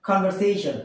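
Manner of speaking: "conversation" said as "kon-ver-SAY-shn"; correct pronunciation. Shown as a demonstration. Teacher giving learners the proper form, "conversation" as kon-ver-SAY-shn. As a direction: say "conversation" with a clear v and long "say". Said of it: "What is it?".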